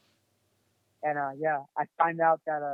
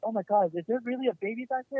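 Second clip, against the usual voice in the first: higher, mildly imitated disbelief; shocked mom; 5 semitones higher than usual. Mom realizing there may be a baby, imitated shock. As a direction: retell a startled question, pitch rising.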